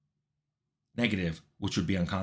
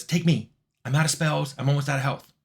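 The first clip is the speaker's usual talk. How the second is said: retold urgent plea; 4 semitones higher than usual. Mary pleads to be rescued.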